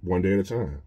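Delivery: gentle, hushed reply from within; small quiet voice. Retold or imitated. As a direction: hush it like a voice inside you. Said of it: "the little small voice say".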